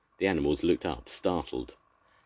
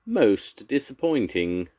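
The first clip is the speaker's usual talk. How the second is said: slow old badger; 6 semitones higher, 4 dB louder, slower than usual. A narrator's reading. Badger speaks slowly.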